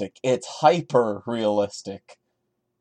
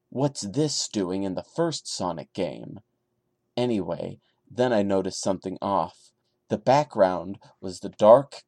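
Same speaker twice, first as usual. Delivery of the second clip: low, hushed creepypasta reading; story reading; 3 semitones lower than usual. Acted. Reading the Sonic creepypasta aloud to viewers, hushed and low. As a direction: read the creepy tale in a low, even hush.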